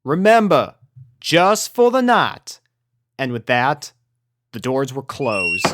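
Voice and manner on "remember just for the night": calling out over rain. A narrator's reading. Applejack reminding Rainbow from the barn door, calling out. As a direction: call it out over the storm. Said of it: "called out over the rain".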